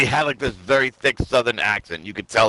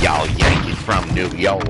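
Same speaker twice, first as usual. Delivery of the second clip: mock Southern hick voice; hammy Southern country accent; hillbilly accent. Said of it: "pretend to be some southern hillbilly hick".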